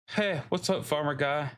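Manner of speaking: lightly voiced dude; bro greeting. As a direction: greet like a cocky teen. Voicing young NPC.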